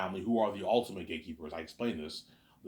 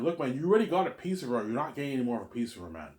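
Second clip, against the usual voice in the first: retorting; 4 semitones higher, 4 dB louder than usual. Retold or imitated. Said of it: "I'm like".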